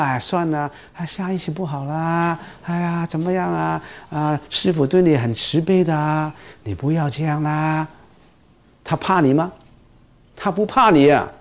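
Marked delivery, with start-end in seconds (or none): 0.0-7.9 mild soft coaxing, much softer; overly gentle monk. Retold or imitated. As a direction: gently wave it off like an indulgent master. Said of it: "你好慈悲". (温柔放纵的师父语气)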